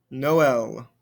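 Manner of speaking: NO L as Noël, two vowels in one word; separate vowel sounds. Shown as a demonstration. Teacher repeating Noël to show different sounds, separate vowels. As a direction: say NO L as "no-EL", both vowels heard. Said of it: "Different sounds there".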